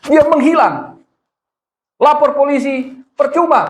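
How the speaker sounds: high, laughing disbelief. Real, not acted. Preacher laughing about the swindler who vanished. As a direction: laugh it out as you say it.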